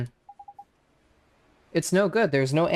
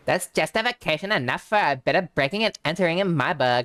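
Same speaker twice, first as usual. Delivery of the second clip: Drippy voice; 3 semitones lower, faster than usual. Acted. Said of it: "do the fucking drippy voice".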